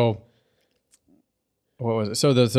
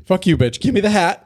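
high, pushy mock demand; snatch the hat like a spoiled bully; bossy pony; 8 semitones higher than usual. Host mocks Twilight grabbing the hat, high bossy demand. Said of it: "She was like".

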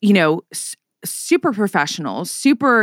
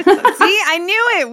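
excited; 11 semitones higher, 3 dB louder than usual. Real, not acted. Laughing high excitement.

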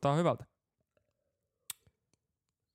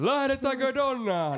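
high, slow showman shout; drawn-out cheering call to the audience; hype shout; 12 semitones higher, 3 dB louder, slower than usual. Acted. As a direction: rouse the crowd like a game show host. Hyping studio audience.

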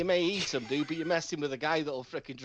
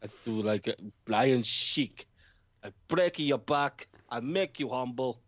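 wrestler promo voice; 4 semitones lower than usual. Retold or imitated. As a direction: cut a heel wrestler promo. Wrestler promo, low slow.

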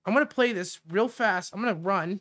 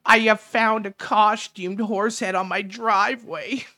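lightly voiced complaining politician, slow and drawn out; mock her complaint with slow, overdone gravity; mocking politician impression; 3 semitones higher, 3 dB louder than usual. Host imitating politician who found a horse head, lightly mocking.

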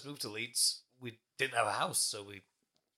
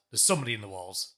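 retold ghost voice; 5 semitones lower, 4 dB louder than usual. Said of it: "that loud".

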